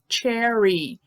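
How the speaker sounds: "cherry" starting on a clear tch; CH sound. Shown as a demonstration. Teacher applies the CH rule, "cherry" with initial tch. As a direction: open "cherry" with tch, as in tché. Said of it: "sempre que tem esse C H".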